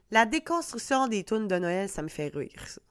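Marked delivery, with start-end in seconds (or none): 1.9-2.8 casual Quebec French rire; ça me fait rire in a relaxed Québécois accent; broad Quebec pronunciation of ça me fait rire. Real, not acted. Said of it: "je l'ai dit avec mon accent de Québec".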